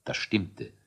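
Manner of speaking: soft unvoiced whisper. A narrator's reading. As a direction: breathe it as a secret aside. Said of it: "narrator whispers aside".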